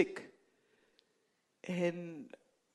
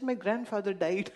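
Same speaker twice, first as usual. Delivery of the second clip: laughing. Retold or imitated. Fake excuse told to classmates.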